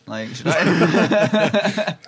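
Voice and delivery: high, slow laughing question. Real, not acted. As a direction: giggle through the question. Joking offer to leave room.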